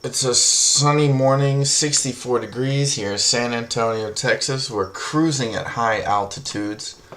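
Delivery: airline pilot announcement voice; captain addressing passengers, mock-formal; pilot cockpit headset. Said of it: "make me sound like a, I'm a pilot".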